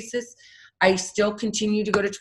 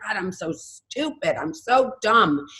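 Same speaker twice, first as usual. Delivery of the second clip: slow, drawn-out self-scolding, imitated; negative self-talk; 2 semitones higher, slower than usual. Addict talking badly about herself to herself, negative self-talk. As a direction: berate yourself slowly, leaning on the insults. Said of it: "in this negative way".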